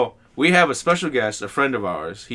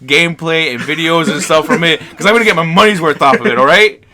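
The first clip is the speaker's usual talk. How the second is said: louder and louder, defending the purchase; defiant rant; 7 dB louder than usual. Real, not acted. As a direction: build it up to a defiant shout. Defiant rant about Switch cost.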